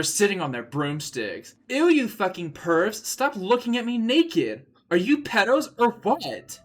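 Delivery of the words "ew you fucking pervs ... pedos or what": screaming at pervs. A narrator's reading. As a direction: scream them away in disgust. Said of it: "I screamed".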